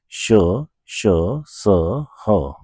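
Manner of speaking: श, श, स, ह breathed out with a puff of air; hissing fricative demo. Shown as a demonstration. Teacher showing students the warm-air sounds, breathy hiss. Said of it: "तो आप जैसे बोलेंगे श".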